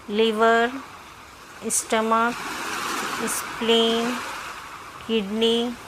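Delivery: measured meditation voice with long pauses; guided meditation. Acted. Doctor leading listeners through self-healing meditation, measured guiding voice. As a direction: guide them in short, spaced-out phrases.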